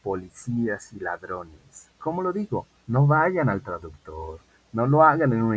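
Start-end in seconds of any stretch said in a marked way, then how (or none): 0.0-1.9 each word drawn out slowly and loudly; slow model sentence. Shown as a demonstration. Teacher dictating to students, very slow and louder. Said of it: "Como digo".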